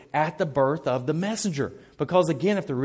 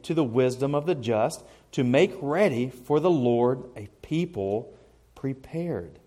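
solemn reading of the Gospel; scripture reading. Acted. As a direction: read it out like scripture in church. Reads scripture aloud.

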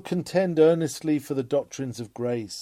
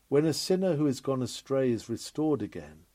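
normal talking voice

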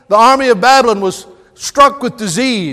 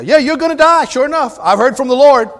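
higher, offhand prophet breaking bad news; mock blunt prophet; 4 semitones higher than usual. Preacher voicing Isaiah's blunt news to a dying king, offhand mock voice. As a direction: toss off the death sentence like it's nothing.

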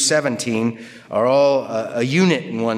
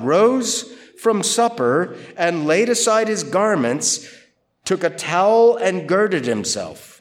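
scripture reading; 2 semitones higher than usual. Acted. Reads the scripture aloud.

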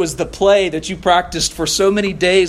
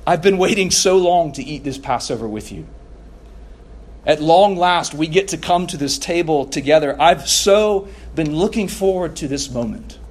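lightly voiced Jesus, longing and eager; a hint of Jesus telling the disciples he's longed for this. Jesus to his disciples at the table, a light touch of eager longing. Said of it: "in the most emphatic way that he can".

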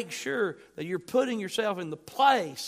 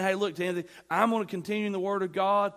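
mock casual Paul. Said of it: "Paul's not saying".

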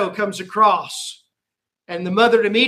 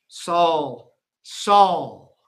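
doubled name. Shown as a demonstration. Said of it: "when he's using a name twice".

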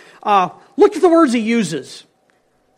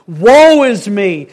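groaning lament; 7 dB louder, much slower than usual. Shown as a demonstration. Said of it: "you need to think groaning, muttering".

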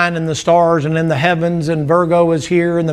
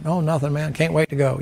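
quiet contented hint; 6 dB quieter than usual. Acted. Acted dinner table chat.

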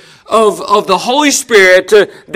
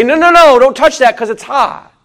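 firm parent warning; 3 semitones higher than usual. Pretend. Parent stops child touching hot.

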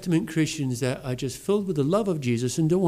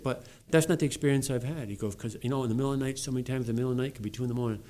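imitating the YouTuber; 7 dB quieter than usual. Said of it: "he said it almost just like this".

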